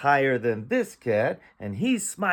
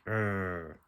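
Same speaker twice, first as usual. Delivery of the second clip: low, soft grumbling "urgh"; quiet, drawn-out disgruntled growl; displeased growl; 4 semitones lower, 6 dB quieter than usual. Acted. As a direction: grumble like an unhappy cat. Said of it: "this cat is not happy".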